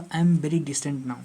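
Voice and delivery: spoken very slowly, each word set apart; slow example sentence. Shown as a demonstration. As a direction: say "I am very decent now" very slowly, word by word. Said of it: "जैसे मैंने बोला".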